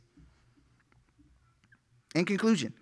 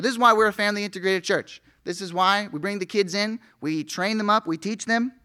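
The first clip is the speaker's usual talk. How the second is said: rising fervor; 5 semitones higher than usual. Real, not acted. Preacher rises to his point.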